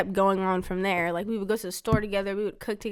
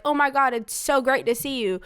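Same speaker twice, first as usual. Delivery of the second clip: higher-pitched mock delight; fake cheery greeting; 4 semitones higher, 3 dB louder than usual. Daughter mocking the happy greeting expected of her, fake cheery. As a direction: put a false smile in it. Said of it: "put a smile on my face".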